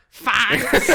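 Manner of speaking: loud, laughing mock-awkward reply; awkward thanks. Brit answering a girl's accent compliment, comically awkward. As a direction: blurt it too big, then crack up.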